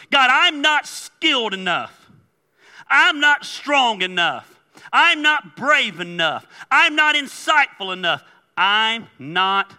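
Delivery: high, loud list of shortcomings; pleading self-doubt. Acted. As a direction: protest to God, hitting each excuse hard. Acting out self-doubting excuses to God.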